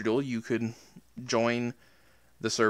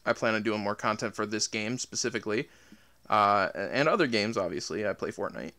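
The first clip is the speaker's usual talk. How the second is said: breathless, winded speech; out of breath; 3 semitones lower, 3 dB quieter than usual. Real, not acted. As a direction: talk while catching your breath. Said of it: "sorry, I'm, like, out of breath".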